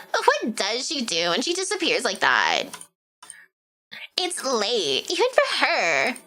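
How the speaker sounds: put-on lightly done Valley Girl reading; a hint of Valley Girl lilt; mild Valley Girl read. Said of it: "read this in a Valley Girl voice".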